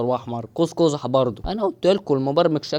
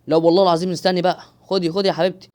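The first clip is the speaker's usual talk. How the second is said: louder, insistent plea; urgent pleading; 3 semitones higher, 6 dB louder than usual. Real, not acted. Gamer pleading with the falling girl to grab hold, urgent. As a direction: beg her to take it now.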